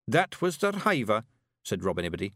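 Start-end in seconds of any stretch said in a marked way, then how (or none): 0.1-1.2 high Scots voice explaining; earnest little Scottish warrior; Scottish Feegle, urgent. A narrator's reading.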